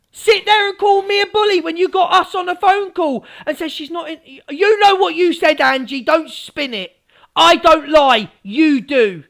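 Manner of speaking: high, heated accusation; livid. Real, not acted. Answering Angie for calling her a bully, livid. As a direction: throw the accusation back at her. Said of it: "I'm livid with her".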